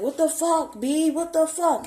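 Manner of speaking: high-pitched mock outburst of disbelief; imitated alarm. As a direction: imitate a startled driver, pitch way up. Stopped driver's startled outburst, retold.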